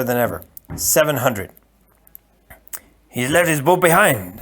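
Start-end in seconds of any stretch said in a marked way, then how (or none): 3.1-4.4 easy, wry reply; lightly voiced Spaniard. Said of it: "the Spaniard said".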